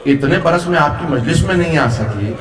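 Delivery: mock-free, understated retold wail; retold wailing lament. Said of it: "دھاڑے مار مار کے رونے لگی".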